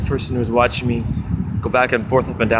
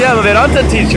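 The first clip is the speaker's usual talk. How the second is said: lightly voiced teacher; 9 semitones higher, 8 dB louder, faster than usual. Quoting Indra.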